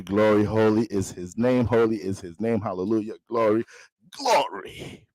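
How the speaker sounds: a hint of a church pastor, rolling and repetitive; preacher voice. Pastor greeting his congregation, lightly preaching. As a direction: intone it like a pastor at the pulpit.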